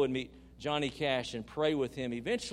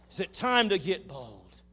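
raised voice, short of a scream; emphatic rallying call; 5 semitones higher, 6 dB louder than usual. Real, not acted. Preacher putting the question to the congregation, emphatic call. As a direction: ask it loudly, higher, easing off towards the end.

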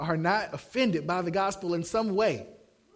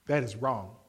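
lower, softer quoted objection; a hint of a calm young woman objecting; offended girl; 11 semitones lower, 4 dB quieter than usual. Girl objecting to the sermon, soft and low. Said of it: "this girl got up and said".

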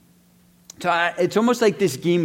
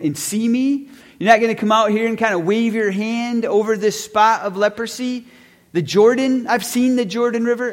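incredulous, higher-pitched mock outrage; retold indignation; 3 semitones higher than usual. Naaman reacting to the servant's simple prescription, retold with indignant disbelief. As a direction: voice his affronted disbelief, pitch climbing. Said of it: "He's furious. He's upset".

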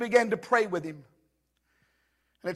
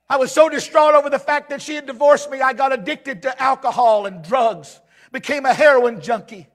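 impassioned retelling; 5 semitones higher, 7 dB louder than usual. Retold or imitated. Preaches the man's story.

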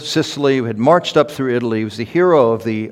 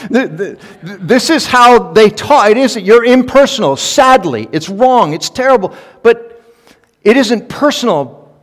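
higher and louder, laughing through the words; laughing explanation; 10 semitones higher, 8 dB louder than usual. Real, not acted. Pastor to church about tough fans, laughing and much higher. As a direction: chuckle as you explain it.

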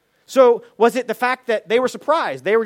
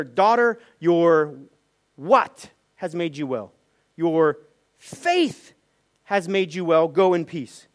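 lower, slow, gentle voice of comfort; tender Jesus; 5 semitones lower, slower than usual. Retold or imitated. Jesus speaks tenderly to healed woman.

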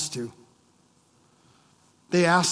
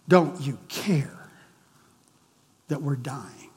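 hushed, slow, desperate whisper; frightened whisper; 3 semitones lower, 3 dB quieter than usual. Acted. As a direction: breathe it out like someone about to drown. Terrified disciples in the storm.

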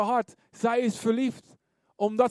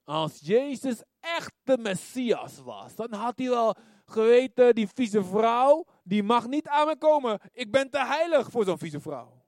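scornful Pharisee. Retold or imitated. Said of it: "die farizeeër zegt".

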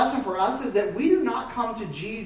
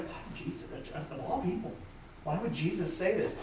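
hushed; 10 dB quieter than usual. Retold or imitated. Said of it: "everything in us is like".

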